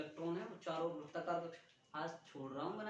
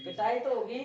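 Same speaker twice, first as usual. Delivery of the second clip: louder, half-joking threat of a beating; stern threat; 2 semitones higher, 8 dB louder than usual. Real, not acted. Teacher tells the class a beating is coming, loud. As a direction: warn them firmly they will be beaten.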